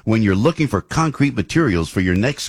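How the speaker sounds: steady ad read over music; radio sponsor announcement. Acted. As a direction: read the sponsor spot cleanly.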